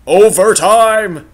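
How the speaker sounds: high, loud, drawn-out cry; excited shout. Real, not acted. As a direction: stretch it out, thrilled. Game tied, shouting.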